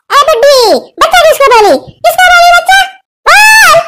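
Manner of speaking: rising into a furious high yell; angry spirit shout. Acted. Spirit yelling at the old woman, furious shout. Spirit yells at mother-in-law.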